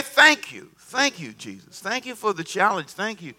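grateful, letting it settle; earnest thanks. Shown as a demonstration. Preacher leading the room in thanking Jesus, sincerely.

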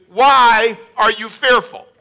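slow, pointed "Why are you fearful?" with a bit of attitude. Retold or imitated. Disciples mimicking Jesus's question, slow with attitude. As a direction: ask it like you're put out at being woken. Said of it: "ask us with some of an attitude".

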